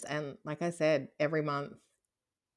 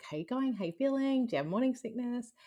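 much higher, bright eager questioning; eager questions; 9 semitones higher, faster than usual. Retold or imitated. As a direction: mimic friends excitedly quizzing her. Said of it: "trying to get excited".

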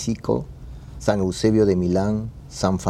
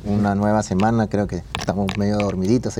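too much caffeine; much faster than usual. Real, not acted. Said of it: "demasiado café".

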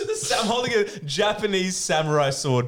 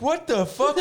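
shocked; 10 semitones higher, slower than usual. Retold or imitated. Friend voiced, shocked.

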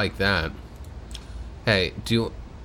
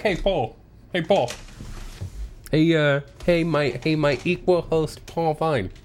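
a lightly nasal, overeager showman voice; hammed-up fake friendly host; annoying put-on voice; 3 semitones higher than usual. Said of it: "not if you're gonna do it in this voice".

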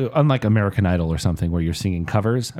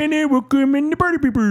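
announcer voice. Pretend. Announcing the band, joking.

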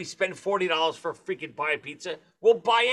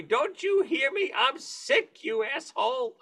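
retold scream; 6 semitones higher, slower than usual. Retelling her screaming at him in bed, high mock yell. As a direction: imitate her screaming, easing down at the end. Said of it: "And she's screaming at me".

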